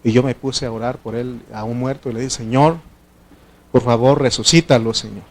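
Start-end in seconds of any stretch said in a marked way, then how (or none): 2.3-5.2 naive early prayer. Retold or imitated. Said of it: "Así oraba yo".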